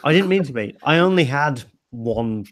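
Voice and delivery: slightly slurred, tipsy speech; words running together after drinks. Real, not acted. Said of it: "You are actually slurring your words".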